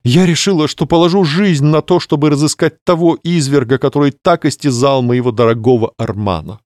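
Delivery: high, solemn vow; vengeful lady voice. Acted. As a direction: swear it dramatically. Clarissa vows revenge. (торжественная клятва)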